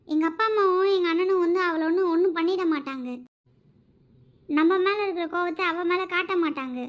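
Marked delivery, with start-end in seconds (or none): 0.1-3.1 pleading through tears, a little louder; tearful pleading. Acted. Wife defends her family to angry husband, tearful. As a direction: voice cracking into a sob as she pleads.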